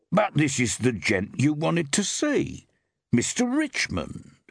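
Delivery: baffled, he can't square it; puzzled tones. Acted. Landlord confused about the guest's name, puzzled. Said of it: "he began in puzzled tones".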